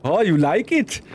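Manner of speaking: mock English accent. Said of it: "when I talk in foreign voices".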